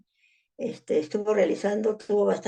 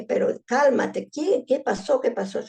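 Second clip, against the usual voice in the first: mildly desperate retold pleading; desesperación recreada; 5 semitones higher than usual. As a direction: re-enact urgent questioning, pitch jumping midway then settling. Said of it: "Ya desesperada le dije". (desesperada, pero contenida al contarlo)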